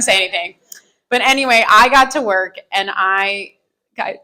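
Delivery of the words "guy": high-pitched, hammed-up confession; squeaky, half-laughing mock panic; acted shocked confession. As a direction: break the news to coworkers in mock distress. Acts out confessing to coworkers.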